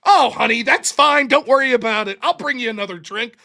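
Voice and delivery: loud sugary server voice; sweet waitress. Retold or imitated. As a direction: sweetly reassure the customer.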